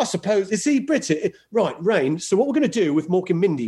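put-on British accent, trying it out; a rough stab at sounding British. Shown as a demonstration. Pitching Mork and Mindy to Rain, put-on British accent. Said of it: "Can you do a British accent?".

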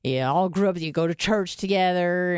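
put-on small-town American accent, lightly done. Describing small-town church life, in a mock small-town accent. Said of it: "I don't know why I'm using this accent".

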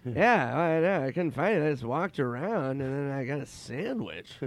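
lightly voiced impression, slightly high; Norm Macdonald. Norm explaining his sandwich, lightly imitated voice. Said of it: "he goes".

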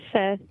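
"pho" clipped short, like fuh; confirming: "pho" as fuh; correct pronunciation. Shown as a demonstration. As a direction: say "pho" with a quick uh vowel. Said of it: "That's right. It's like, it's pronounced".

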